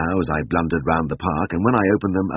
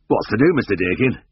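bewildered cry; 4 semitones higher than usual. A narrator's reading. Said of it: "the drover cried in bewilderment".

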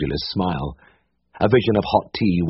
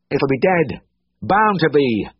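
put-on higher, gruff old uncle grunting doom; grunted; 9 semitones higher, 3 dB louder, slower than usual. A narrator's reading. Uncle grunting doom at the vet, higher and gruff. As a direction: grunt it back on the attack. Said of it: "grunted Uncle".

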